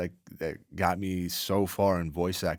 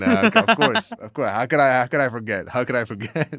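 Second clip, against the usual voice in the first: mock forgetful; 6 semitones higher, 10 dB louder than usual. Playful mock self-reproach after joke.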